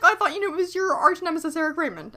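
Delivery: high mock cartoon voice; voicing Rockwell. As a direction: play it as a goofy cartoon reply.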